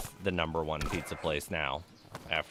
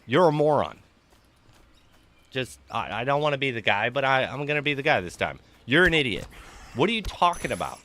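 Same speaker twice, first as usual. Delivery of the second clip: high, loud scolding of a lady; imagined rant; 6 semitones higher, 3 dB louder than usual. Pretend. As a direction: lecture her in an imagined tirade. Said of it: "I wanted to get up and be like".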